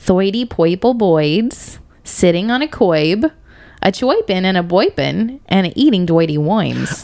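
Boston accent, "curb" said "coib", oi for er. Repeating a silly rhyme, this time in a Boston accent. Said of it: "it's really fun if you do it in a boston accent".

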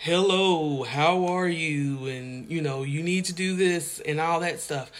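put-on loud, boisterous god voice. Describing how Hollywood portrays God speaking, in a loud, boisterous God voice. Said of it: "in this loud, boisterous voice".

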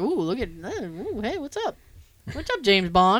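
swooning, starstruck, flirty, fawning tone. Retelling how women reacted to Roger Moore: imitating women flirting. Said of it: "women would be like".

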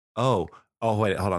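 ordinary delivery

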